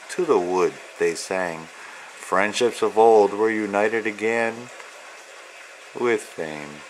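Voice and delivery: steady, rhythmic read-aloud of rhyming verse; reading to children. Acted. Author reading his picture book to young children, rhythmic storyteller voice. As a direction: lilt through the rhymes like a bedtime book.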